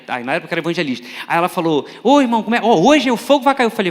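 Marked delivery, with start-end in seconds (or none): 2.0-3.7 loud, mildly hammed-up church fervour; fervent greeting. Church sister answering the visiting preacher's call, mock fervent. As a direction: greet with mock revival zeal.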